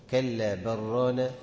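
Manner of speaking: كلا برانا chanted slowly, run together without pause; merged reading. Shown as a demonstration. Teacher showing Shu'ba's joined reading. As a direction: join كلا برانا with no break. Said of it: "بيقول برانا".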